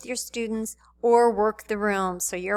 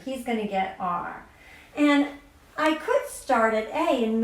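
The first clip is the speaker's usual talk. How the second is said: lightly voiced classroom teacher. Shown as a demonstration. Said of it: "I'm gonna put on my teacher voice".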